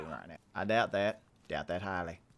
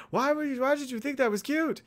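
high, loud playful demand; mock incredulous question; 13 semitones higher, 5 dB louder than usual. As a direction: squeak it out in mock disbelief. Mock questioning of own remark.

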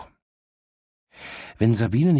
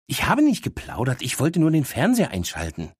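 indignant dog; 6 semitones higher than usual. Acted. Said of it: "erwidert Miss Happy".

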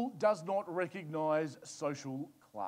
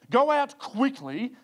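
"Go out quickly" higher, much louder and slow; "quickly" drawn out and driven hard; emphasis on quickly; 6 semitones higher, 7 dB louder, slower than usual. Shown as a demonstration. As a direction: hammer home "quickly" as an urgent command. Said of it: "Underline the word quickly".

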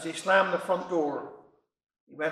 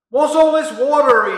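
surprised exclaim; 5 semitones higher, 10 dB louder than usual. Retold or imitated. Jack exclaims at flood.

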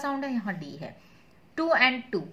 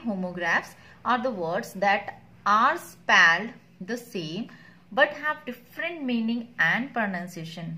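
very slow, deliberate definition read; dictation reading; 3 dB louder, much slower than usual. Acted. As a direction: read it out slowly so they can write it down. Reads definition slowly.

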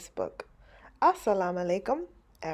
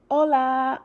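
grandma's greeting; 5 semitones higher, 6 dB louder than usual. Acted.

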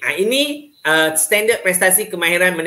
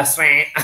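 imitated runny-nose sniff; a crying character's snotty sniff, mimicked; mock sniffle; 4 semitones lower than usual. Shown as a demonstration. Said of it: "dia ingus". (bunyi sedut hingus olok-olok)

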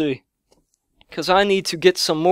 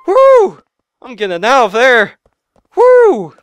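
whooping; 3 semitones higher, 5 dB louder than usual. Real, not acted. Gamer fleeing the shop, whooping. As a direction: holler while running off.

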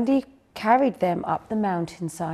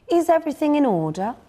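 cold regal fairy queen; 8 semitones higher, 6 dB louder, faster than usual. Acted. Queen returns and checks.

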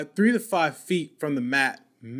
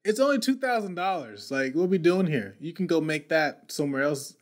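exasperated protest; 3 semitones higher than usual. Retold or imitated. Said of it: "I'm like".

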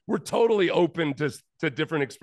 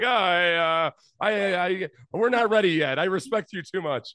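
stammering, a bit higher, mock bashful; mock nervous excuse; 5 semitones higher than usual. Joking the runner backs out at home, mock nervous. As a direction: fumble out a flimsy excuse. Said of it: "fake a leg cramp or something and just say".

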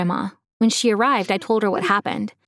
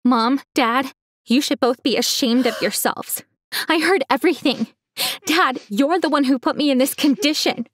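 rising, higher and angrier; yelled; 5 semitones higher than usual. Acted. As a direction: accuse them, climbing up. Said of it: "I yelled".

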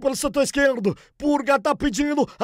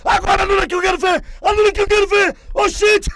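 indignant shouting; 2 semitones higher, much faster than usual. Real, not acted. Protesting disallowed goal.

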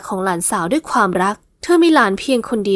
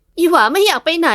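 sulky reluctance; 6 semitones higher than usual. Acted. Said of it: "หญิงสาวอิดออด".

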